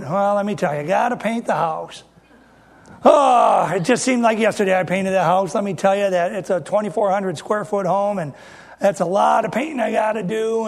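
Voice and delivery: light mock grumbling; complaining brother. Complaining church member moans about painting his house, lightly mocked. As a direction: sigh through the list of chores. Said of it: "All they do is complain".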